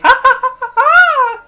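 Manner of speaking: high, loud cackling laugh; maniacal laugh. Retold or imitated. Imitating fake April's maniacal laugh.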